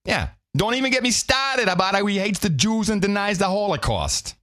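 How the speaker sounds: high, mocking put-on Jewish accent, badly done. Mocking the author's clip with a bad Jewish accent. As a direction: ham up a clumsy Jewish accent. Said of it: "That was a pretty bad Jewish accent".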